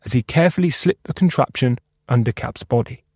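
plain reading voice

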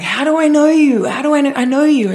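high imitated pickup line; mock pushy guy. Imitating the guy hitting on her friend, high-pitched. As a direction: play the eager stranger.

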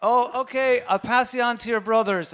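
flustered handover. Retold or imitated. Relative passing the Christmas call on, high mock phone voice.

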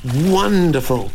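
high, drawn-out cheer; delighted sparrow. A narrator's reading. Sparrow thanking Jack for the result, delighted. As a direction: pipe it up like a pleased bird.

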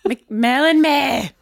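McMellinmere drawn out slowly with a clear meh ending; correct pronunciation. Shown as a demonstration. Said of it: "You go meh on the end".

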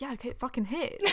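hushed awed whisper. Retold or imitated. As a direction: whisper it as it dawns on you. Inner voice quote, whispered.

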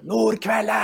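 high, insistent mock holler; Dag Eilev. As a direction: imitate him calling out to an ignoring player. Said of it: "En gang til". (etterapet, høyt og lyst rop)

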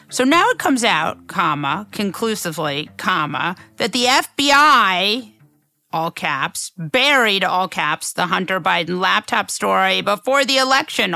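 reading out every comma and caps; dictating. Shown as a demonstration. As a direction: read it out like dictation, punctuation and all. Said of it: "I think it's important to read it".

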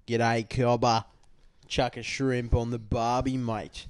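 put-on a light stereotyped Australian accent, as an American would do it; cheesy Australian accent. Imitating an American asked to do Australian, light Australian accent. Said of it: "Oh, do an Australian accent".

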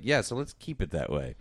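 low, cool mock sternness; stern. Guy shutting down a friend wanting an interview, stern. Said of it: "Almost evil Dilly in his sternness".

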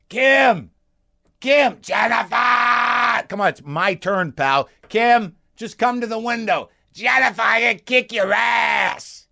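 put-on high, drawn-out hollering in a local accent; stretched names, shouted far and high; yelling from the street. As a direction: bellow pleadingly up at a closed window. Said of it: "across from the guy going".

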